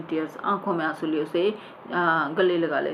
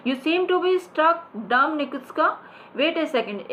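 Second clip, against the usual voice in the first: high, very slow stage line; an old actor savouring his words; hammed-up stage actor; theatrical declamation; 8 semitones higher, much slower than usual. Shown as a demonstration.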